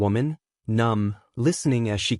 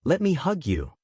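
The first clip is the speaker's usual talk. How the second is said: through sobs; 5 semitones higher than usual. A narrator's reading. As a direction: beg to hold her while the tears come. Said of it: "choking words out between sobs".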